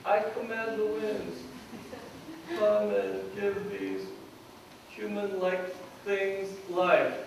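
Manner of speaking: slow, solemn prophetic command; the prophet calling the winds, slow and grave; solemn proclamation. Acted. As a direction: intone it like a prophet.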